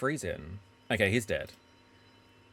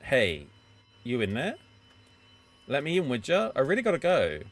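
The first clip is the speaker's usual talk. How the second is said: 1 calling through door; 5 dB louder than usual. Acted. Drunk man knocking at bathroom door.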